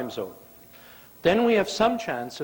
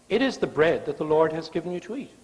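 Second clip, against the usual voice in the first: nice reading; faster than usual. Shown as a demonstration. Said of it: "I've read that in a nice way".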